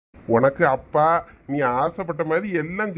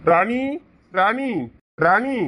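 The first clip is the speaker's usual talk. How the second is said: calling out; 5 semitones higher, much slower than usual. Acted. Husband calling wife from outside.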